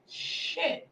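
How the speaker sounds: breathy under-the-breath swear; hushed aside curse; whispered curse. Real, not acted. Muttered swear after request.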